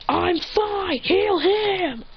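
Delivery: high, exasperated outburst; acted indignant insistence; insistent protest. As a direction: snap back that others come first. Insisting, retort in quarrel.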